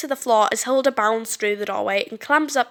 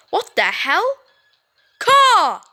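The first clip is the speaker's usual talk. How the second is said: high, loud cry of alarm; panicked shout; 7 semitones higher, 6 dB louder, much slower than usual. Acted. Cody shouts in panic as crows attack. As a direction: yell as birds hit you.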